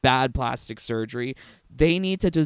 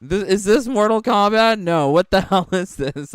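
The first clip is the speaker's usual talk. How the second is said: surprised; 5 semitones higher, 6 dB louder than usual. Real, not acted. Surprised at the game.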